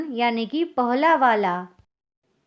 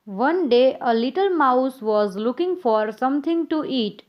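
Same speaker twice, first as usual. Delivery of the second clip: put-on very slow, careful read-aloud for young pupils; slow storybook reading; much slower than usual. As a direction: read the story gently, word by word. Teacher reads story to children.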